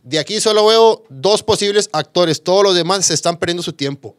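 loud, high, cutting verdict to the whole class; imitating a scornful teacher yelling; harsh teacher shouting. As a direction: bark it at a room of students like a brutal acting teacher.

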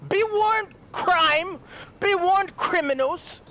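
high, slow heroic warning. Pretend. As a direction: warn the city's criminals, slowly. Hero warning to criminals.

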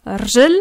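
rjel said very fast, no A; quick rjel. Shown as a demonstration. Teacher showing the fast rjel. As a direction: snap out rjel. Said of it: "Tu dis très vite rjel".

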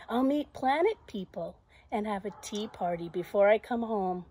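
loud, emphatic storybook heroine; defiant Zoe. Acted. Zoe answering the little voice about flying, loudly confident. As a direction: declare it boldly to the doubter.

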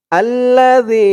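আল্লাযী with a soft thin ذ, tongue tip at the upper teeth; আল্লাযী with a light, dental th sound; soft dhal. Shown as a demonstration. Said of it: "জালের উচ্চারণটা একদম নরম পাতলা হবে".

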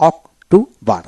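অক্টোবর broken as অক-টো-বর, a gap after each part; teacher's split-up অক-টো-বর; syllable by syllable. Shown as a demonstration. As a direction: read অক্টোবর in three separate syllables. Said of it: "উচ্চারণ কিভাবে পড়বেন".

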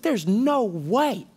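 high, cocky shouted boasting with laughs; zealous Peter. Acted. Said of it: "he was like".

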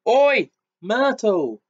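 long, high, loud bellow. A narrator's reading. Peeves calling Myrtle over, a loud drawn-out bellow. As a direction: holler across the dungeon.

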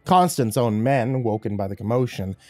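measured horror storytelling; dramatic, deliberate audiobook reading; story narration. A narrator's reading. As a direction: narrate a grim battle, dropping at sentence ends. Reads horror story aloud.

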